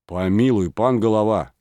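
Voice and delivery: crying out. Acted. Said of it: "закричали некоторые".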